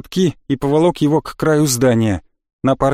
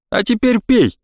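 arrogant command; 7 semitones higher than usual. A narrator's reading. Elf sneers, demands drink.

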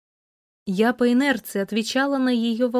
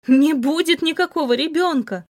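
crying out; 5 semitones higher than usual. Acted. Heroine screams at her cold lover, desperate cry. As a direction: shout it through tears. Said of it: "закричала я".

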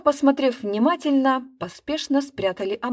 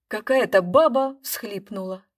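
plain reading voice

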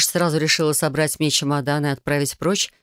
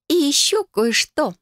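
put-on bright, higher girlish cousin voice, eager; Felicia's voice; 11 semitones higher, slower than usual. Cousin proposing a blood oath to Adel, eager and higher. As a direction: play the scheming cousin, higher.

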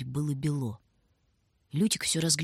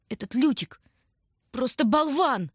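tearful cry; 7 semitones higher than usual. A narrator's reading. Tanya crying out about Lyutik through tears. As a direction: blurt it out crying. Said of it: "крикнула Таня со слезами".

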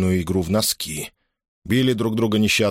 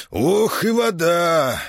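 cold-water gasp; 9 semitones higher, much slower than usual. A narrator's reading.

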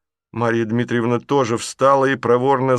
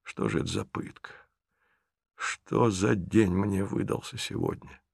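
inner muttering; 7 dB quieter than usual. Acted. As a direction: say it under your breath. Inner thought. (тихо, про себя, в отчаянии)

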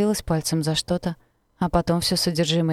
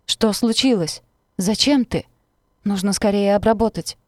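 high, loud, panicked questions; alarmed; 4 semitones higher, 4 dB louder than usual. Acted. Mother panicking over her bleeding daughter, high and loud. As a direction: rush it out in alarm.

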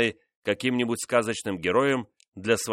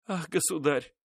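high, breathless outcry of relief; a sudden high cry of joy; exclamation; 7 semitones higher, 3 dB quieter than usual. Acted. Favourite greeting the king, high surprised cry. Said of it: "вскрикнула она".

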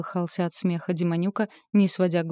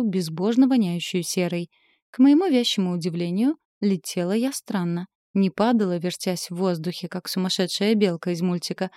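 usual speaking voice

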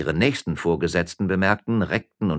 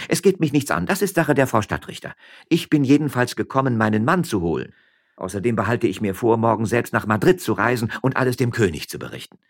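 lightly voiced firm, higher-pitched wife; defiant miller's wife; 5 semitones higher, 4 dB louder than usual. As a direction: hold your ground and threaten him a little.

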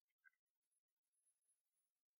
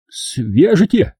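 high, slow, incredulous repeat; puzzled echo; 8 semitones higher, much slower than usual. Acted. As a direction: question the word, baffled. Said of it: "переспросил грузчик".

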